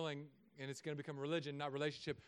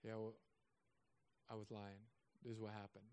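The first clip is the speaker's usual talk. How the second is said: much softer, lower guilty admission; child finally admitting the lie; sheepish confession; 7 semitones lower, 13 dB quieter than usual. Retold or imitated. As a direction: mumble the confession head down. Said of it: "they finally say".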